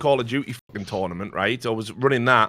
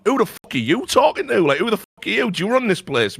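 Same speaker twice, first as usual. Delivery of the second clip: retold angry challenge; 8 semitones higher than usual. Retold squaring up to caster.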